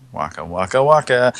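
bouncy comic waka waka, rising on the last; Fozzie-style waka waka. Acted. Comedian closing a bad joke with waka waka. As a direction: punch it like a Muppet bear comic.

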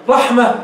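رحمة with its ة turned to h; pausal ha. Shown as a demonstration. Teacher repeats the stopped word, pausal h. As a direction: finish رحمة on an audible h, no t. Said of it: "قلبت التاء هاء".

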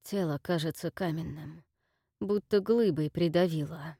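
strained rasp of a hurt man; hoarse wounded voice. Acted. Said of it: "прохрипел раненый".

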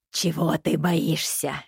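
low, slow menacing softness; dangerously soft. Acted. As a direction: ask gently with hidden threat. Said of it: "Переполненный опасной мягкостью голос".

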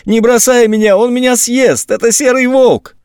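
put-on little girl crying to her brother not to leave; wailing girl. A narrator's reading. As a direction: sob it out, terrified. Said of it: "заревела сестра в голос".

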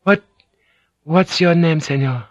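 Mariko. A narrator's reading.

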